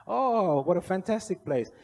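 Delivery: high, loud swooping "oh"; hammed-up delight from an impressed janitor; retold gushing admiration. Janitor flatters the visitor from Hong Kong, loudly gushing.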